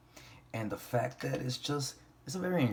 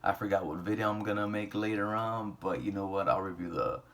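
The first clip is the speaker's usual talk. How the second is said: nodding off. Real, not acted. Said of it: "I'm falling asleep right now".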